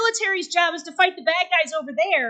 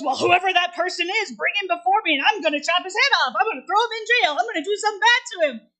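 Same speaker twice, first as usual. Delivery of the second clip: rising indignation, a touch of temper; angry king; faster than usual. Acted. King furious at the lamb thief, mild indignant threats. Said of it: "And the king goes".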